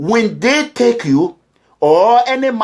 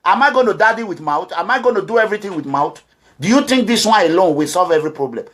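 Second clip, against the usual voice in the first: usual speaking voice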